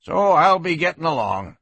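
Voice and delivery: put-on old man voice. A narrator's reading.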